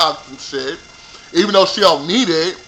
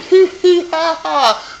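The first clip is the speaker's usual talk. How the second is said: mock giggle; 10 semitones higher, slower than usual. Mimicking Kate laughing.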